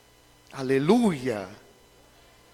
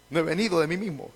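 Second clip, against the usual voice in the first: soft, quick repeat; quiet restatement; 7 dB quieter, faster than usual. Acted. Preacher restates the verse for the congregation, soft and quick. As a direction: say it back softly, almost to yourself.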